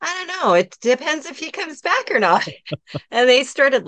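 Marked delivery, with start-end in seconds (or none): 0.0-2.5 high-pitched, replayed uncertainty; high voice quoting an awkward reply; retold helpless reply. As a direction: pitch it up as a mock-helpless answer.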